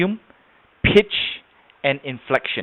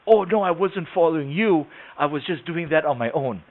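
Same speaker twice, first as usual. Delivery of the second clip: higher-pitched denial; retold protest; 3 semitones higher than usual. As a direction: protest it, imitating the man in a higher voice. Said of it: "And he goes".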